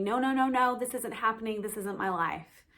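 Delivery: mildly voiced panicked denial, rushed together; mock inner scream. Her mind refusing rock bottom, retold as a mild mock scream. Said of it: "narratives in my mind would be screaming".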